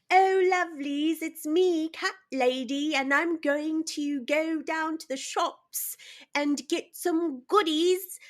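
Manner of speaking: high, prim British cat lady cooing over her lovelies; sweet genteel lady of the manor, pitched high; cat lady impression. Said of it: "Hit me with your best cat lady impersonation".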